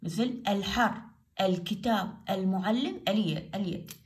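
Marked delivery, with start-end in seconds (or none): 0.5-3.0 الحر، الكتاب، المعلم each with an audible L; sounded lam. Shown as a demonstration. Teacher gives moon-letter examples, lam sounded. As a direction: say الكتاب as "al-kitab", L fully sounded. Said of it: "هنا اللام تلفظ".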